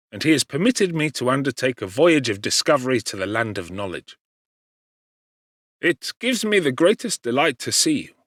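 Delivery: chatting brightly about his father; lightly voiced cheerful friend; Clerval, cheerful. Clerval tells his news.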